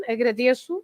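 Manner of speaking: "agradeço" stressed on the e before ço; same stress without lhe. Shown as a demonstration. Teacher comparing the form without lhe, "agradeço" with stress on de. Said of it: "the pronunciation is the same".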